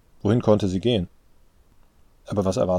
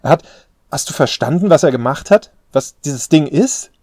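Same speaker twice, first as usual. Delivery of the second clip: loud, high, incredulous questioning; outraged shouting; 7 semitones higher, 9 dB louder than usual. A narrator's reading. Daughter challenging father about grandfather's deed, outraged. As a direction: demand an answer, voice raised. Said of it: "rief sie".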